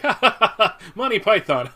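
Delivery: hammed-up high, loud fake laughter; mock American laugh. Laughing at a British joke, hammed-up fake guffaw. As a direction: laugh along like a dazzled American. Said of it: "and we'd be like".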